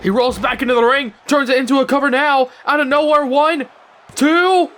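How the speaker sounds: play-by-play climbing in pitch to the count; building excitement. Real, not acted. Commentator calls a cover out of nowhere, building excitement.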